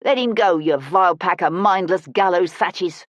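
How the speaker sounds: lightly voiced scolding older woman; a touch of indignant street woman; older woman's voice. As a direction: order the ruffians off like a cross old woman. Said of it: "an older woman's voice said".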